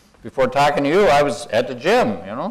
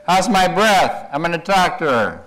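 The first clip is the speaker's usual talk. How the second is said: slightly hammed-up, higher and louder cartoon line; lightly voiced cartoon character; 5 semitones higher, 4 dB louder than usual. Speaker reads a cartoon of figures talking together, lightly acted. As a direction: read the cartoon caption out in a lifted, stretched voice. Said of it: "they're talking together".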